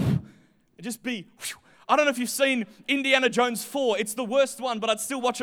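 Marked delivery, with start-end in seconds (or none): 1.4-1.5 short whoosh sound; a quick puff of whooshing air; imitated whoosh. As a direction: mimic being blown away, whoosh. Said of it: "I'm gonna go, whoosh".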